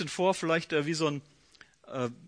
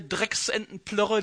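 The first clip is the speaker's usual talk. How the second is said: disgusted sneer; 2 semitones higher, slower than usual. Retold or imitated. Naaman mocking the Jordan, slow disgusted sneer. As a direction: draw out the word Drecksentenplörre slowly with contempt. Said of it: "schimpft er".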